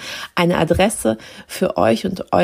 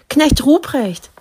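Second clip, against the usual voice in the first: high, slow call of the Christkind; bright calling voice; 6 semitones higher, 4 dB louder, slower than usual. A narrator's reading. Christkind calling to Knecht Ruprecht, high bright call. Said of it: "rief's mich mit heller Stimme an".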